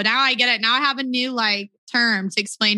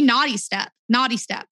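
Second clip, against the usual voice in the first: NAUGHTY said American, like "noddy"; American accent. Shown as a demonstration. American asked to say British slang, American accent. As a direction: say naughty with an open "ah" and tapped t, American. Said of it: "could you do it in an American".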